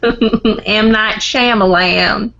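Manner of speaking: drawn-out, mock twang on the name; imitated twang. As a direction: stretch the name with a teasing twang. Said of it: "like, a twang".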